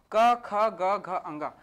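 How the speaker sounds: "क, ख, ग" said loud and distinctly from the throat; clear letter demo. Shown as a demonstration. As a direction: sound out "क, ख, ग" slowly from the throat. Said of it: "जब भी मैं क, ख, ग, घ, अंगा का उच्चारण कर रहा हूँ".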